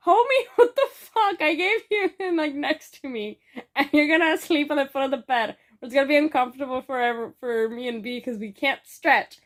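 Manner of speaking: high, loud, laughing disbelief; exasperated protest. Retold or imitated. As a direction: retell an incredulous complaint, starting very high and easing down. Retold protest at friend's sleeping spot.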